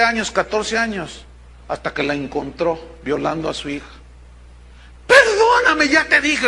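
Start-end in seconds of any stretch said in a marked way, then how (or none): 5.1-6.5 much higher, louder begging cry; desperate plea. Retold or imitated. Husband begging his wife, high desperate cry. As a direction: beg frantically for forgiveness. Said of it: "el hombre lloraba desesperado".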